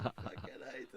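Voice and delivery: high, loud burst of glee; a loud high mock cheer; triumphant whoop. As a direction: celebrate like you just won. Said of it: "And I went".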